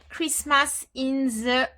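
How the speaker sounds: English with a real French accent; halting English, heavily French-accented; strong French accent. Real, not acted. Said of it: "Pardon pour mon accent, qui est catastrophique en anglais".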